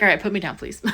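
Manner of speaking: laughing while voicing the cat; mock-annoyed cat voice with a laugh. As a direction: laugh through the cat's complaint. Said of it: "She's like".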